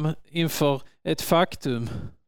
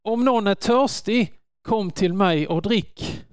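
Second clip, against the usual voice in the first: Jesus calling out high to the thirsty; raised, inviting call; 6 semitones higher than usual. Acted. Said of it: "Han ropar".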